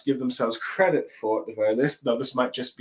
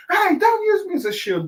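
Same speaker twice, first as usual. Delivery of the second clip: much higher, louder annoyed protest; annoyed Usopp; 4 dB louder than usual. Retold or imitated. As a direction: snap back, completely fed up. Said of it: "being completely annoyed".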